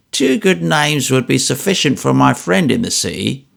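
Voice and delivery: put-on a touch of a crafty old moneylender; lightly voiced sly old man. Old moneylender sounding out George about relations, lightly sly. Old Smallweed probing trooper.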